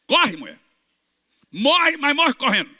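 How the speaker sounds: forceful command. Retold or imitated. Preacher ordering the sick woman, forceful. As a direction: drive her to run.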